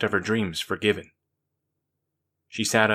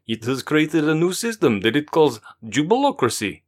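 higher, louder rushed explaining; manic near panic; 4 semitones higher, 3 dB louder than usual. Acted. Forbin explains to Daniqua, manic and near panic. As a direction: spill it out close to panic. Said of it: "Forbin was legitimately manic, bordering on panic".

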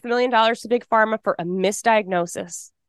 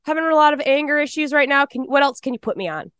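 pleading to psychiatrist; 4 semitones higher than usual. Retold or imitated. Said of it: "I'm like".

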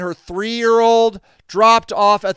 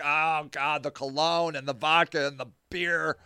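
soft, pained muttered disgust; soft grossed-out mumble; disgusted groan; 5 semitones lower, 11 dB quieter than usual. Retold or imitated. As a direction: recoil from the smell under your breath. Smelling him while hugged.

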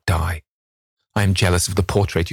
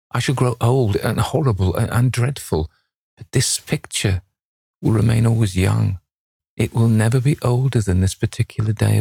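higher-pitched, mildly impassioned lament; anguished longing; 4 semitones higher than usual. A narrator's reading. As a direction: yearn aloud, pitched up, with understated anguish. Dorian laments ageing while portrait stays young.

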